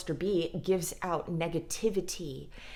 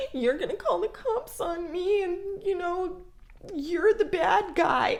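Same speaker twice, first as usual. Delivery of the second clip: much higher, whiny crying voice; mock victim; 11 semitones higher, 4 dB louder than usual. Abuser plays victim to partner, high whiny fake crying. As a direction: whine like a wounded victim. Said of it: "Or play the victim".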